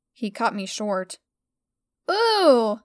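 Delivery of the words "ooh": high, delighted coo; a girlish, eager coo; cooing ooh. A narrator's reading. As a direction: coo it up high like a thrilled girl. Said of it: "Stella cooed".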